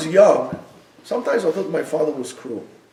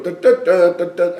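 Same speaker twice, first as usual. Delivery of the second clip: mock bugle call; 4 dB louder than usual. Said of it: "like, a bugle".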